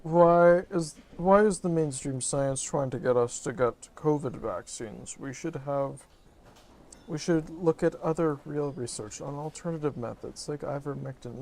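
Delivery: whiny skeptic-bashing voice; mock a conspiracy theorist; mocking conspiracy guy. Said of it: "people are like".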